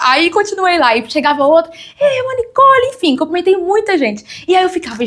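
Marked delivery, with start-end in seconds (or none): 1.7-2.9 a drawn-out, much higher call of her name. Retold or imitated. A church member calling to sister Nicole across the room, drawn-out and high. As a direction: stretch the greeting slowly, way up high.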